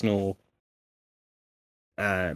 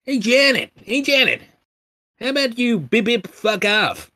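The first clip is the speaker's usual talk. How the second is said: high, loud mock computer retort; assistant talking back; 11 semitones higher, 4 dB louder than usual. Mimicking assistant answering back at Janet.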